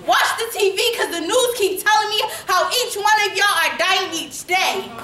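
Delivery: lightly voiced mock gratitude from a Klan letter writer; a hint of a gloating villain; gloating Klansman. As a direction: read it as a gleeful, lilting thank-you note. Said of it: "A note from the K K K".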